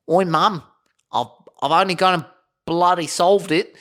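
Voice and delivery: put-on high, cocky boyish brag; proud Norbert. Norbert bragging to his mum, high and cocky. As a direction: crow about it like a chuffed lad. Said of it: "he goes".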